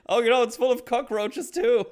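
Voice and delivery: very high, loud laughing exclamation; mock disgust. Geppetto seeing cockroaches in the torso, high loud voice. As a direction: blurt it out like a grossed-out old man.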